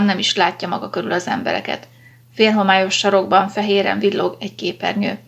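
ordinary delivery

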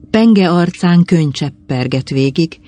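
ordinary delivery

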